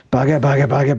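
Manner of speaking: normal talking voice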